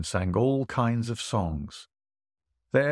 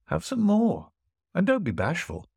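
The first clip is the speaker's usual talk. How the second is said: a boastful host, a touch higher; puffed-up host pressing food on his guest; hint of a lordly host, mostly in the reader's voice; lightly voiced host; 8 semitones higher than usual.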